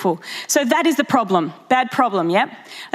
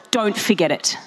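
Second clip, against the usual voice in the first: stern grandmother; 2 semitones lower than usual. Retold or imitated. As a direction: scold the full name lightly. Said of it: "she said".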